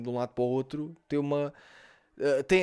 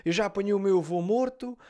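neta a chorar, imitada; 5 semitones higher than usual. Retold or imitated. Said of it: "E ela estava a chorar".

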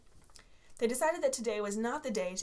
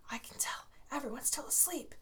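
soft unvoiced whisper; 4 semitones higher, 7 dB quieter than usual. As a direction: whisper it to a classmate. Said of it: "Tyler whispered to Joe".

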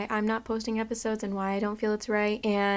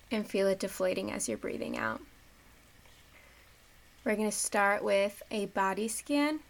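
measured meditation voice with long pauses; guided meditation. Acted. Host leading listeners through breathing and body scan, guided meditation.

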